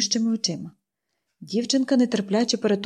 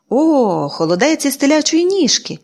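louder, friendly exclaim; doctor's hearty welcome; cordially; 6 semitones higher, 3 dB louder, slower than usual. Acted. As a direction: greet it with delight. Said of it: "привітно поцікавився він".

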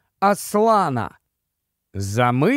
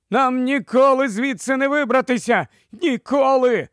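higher despairing complaint; lamenting; 6 semitones higher than usual. A narrator's reading. Rowers despairing that they'll never escape, lamenting. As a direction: wail that all is lost. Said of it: "нарікали веслярі".

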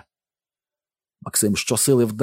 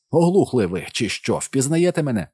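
high, raised, exasperated question; loud, pitched-up demand; shouting over noise; 6 semitones higher, 3 dB louder than usual. A narrator's reading. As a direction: yell to be heard over the din. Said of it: "намагаючись перекричати шум".

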